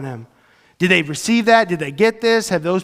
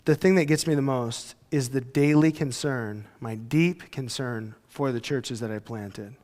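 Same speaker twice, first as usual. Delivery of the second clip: slow, softer, burdened voice; heavy-hearted Paul; 7 semitones lower, 9 dB quieter than usual. Retold or imitated. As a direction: weigh down every word. Paul's words, heavy, slow.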